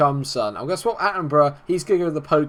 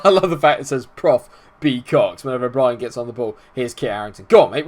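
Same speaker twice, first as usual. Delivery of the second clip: usual speaking voice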